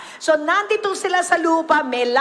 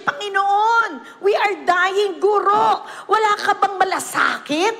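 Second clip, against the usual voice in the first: higher, pleading voice, lightly acted; mock panic; 3 semitones higher than usual. Disciples begging the Lord in the storm, hammed-up panic. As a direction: whine to the Lord that you're sinking.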